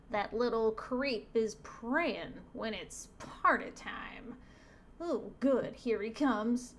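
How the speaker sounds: lightly put-on devil, slow and scheming; a hint of a gloating villain; lightly voiced devil. Devil spying on the praying boy, lightly voiced villain.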